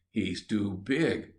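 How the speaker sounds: slow, scornful put-down; contemptuously. Acted. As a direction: look him up and down with scorn. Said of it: "said the little bear contemptuously".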